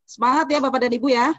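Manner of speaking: fast, loud and bright; loud energetic. Real, not acted. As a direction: fire up the class. Trainer energises participants loudly.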